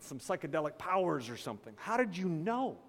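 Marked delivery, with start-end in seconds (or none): 1.8-2.8 shocked friend. Retold or imitated. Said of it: "he was just so shocked".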